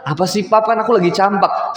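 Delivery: put-on high, whiny kid voice; whiny daughter. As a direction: play the sulky little girl. Daughter voiced in retold dialogue.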